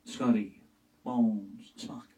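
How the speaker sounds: halting, punched captain commands; William Shatner impression. Starship captain calling his crew, halting and punched. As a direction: bark each name with dramatic pauses. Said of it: "really kinda animated".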